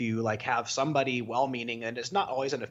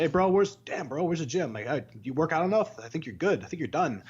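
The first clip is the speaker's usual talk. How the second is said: higher, teasing gym bro impression; mock gym bro; 4 semitones higher than usual. Mocking a gym bro who teases about working out. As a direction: poke fun like a cocky gym bro. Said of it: "the guy can't say".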